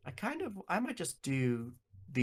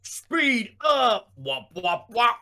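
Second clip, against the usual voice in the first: silly clown; 3 semitones higher, 6 dB louder, much slower than usual. Pretend. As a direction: play a kid racing a toy car. Pretend car speeding up.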